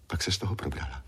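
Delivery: ordinary delivery, nothing marked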